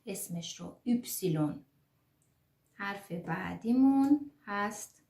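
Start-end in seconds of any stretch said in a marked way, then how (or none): 0.9-1.6 یپسیلون in full, every syllable, "üpsilon"; low-pitched, complete یپسیلون with rounded ü; fully pronounced name. Shown as a demonstration. Teacher showing how to spell aloud, یپسیلون in full. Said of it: "کاملاً باید ادا کنیم".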